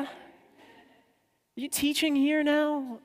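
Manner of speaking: a hint of a gruff British security guy; British contractor. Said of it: "seasoned British, um, security contractor".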